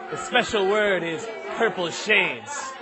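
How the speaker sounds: slow, drawn-out delivery of a secret; slow reveal. Acted. Homeless man reveals a secret word to a kid, slowly. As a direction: draw the words out portentously.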